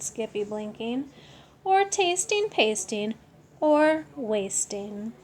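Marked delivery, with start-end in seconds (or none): 1.6-5.1 warning voice. Acted. Mama warning her son.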